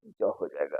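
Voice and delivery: ज as English z, low and soft; z sound. Shown as a demonstration. Teacher quietly showing the z sound. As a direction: buzz the ज like z. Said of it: "इस एस का उच्चारण क्या हो जाएगा?".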